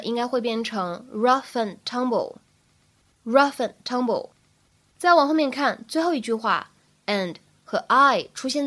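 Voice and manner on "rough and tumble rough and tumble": "rough and tumble" as "ruff-en tumble", d dropped; careful "rough and tumble" with linking and a silent d; slow linked reading. Shown as a demonstration. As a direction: link "rough" into "and", no released d before "tumble". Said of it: "所以慢速来读呢".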